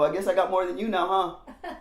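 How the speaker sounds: smug laughing brag; mock gloat. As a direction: rub it in with a laugh. Gloating retold quote.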